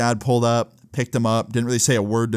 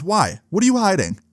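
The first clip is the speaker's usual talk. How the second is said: mock suspicious mom; 8 semitones higher than usual. Mom demands what he's hiding.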